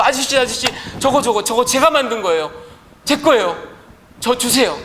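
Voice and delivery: put-on a child begging the shopkeeper for his boat; child pleading. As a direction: plead like a kid who wants his boat back.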